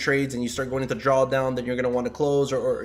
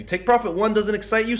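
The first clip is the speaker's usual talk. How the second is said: "Take profit one doesn't excite you" pitched much higher, stress on "profit", rising at the end; emphatic repeat; 8 semitones higher than usual. Shown as a demonstration. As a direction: push "profit" up high and press the point home. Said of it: "Take profit one does not excite you".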